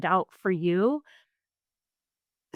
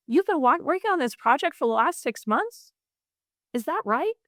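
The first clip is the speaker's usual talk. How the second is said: rising question tune on every ending; uptalk; 5 semitones higher than usual. Shown as a demonstration. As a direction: sound unsure by lifting each sentence end. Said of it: "you can hear it in my voice".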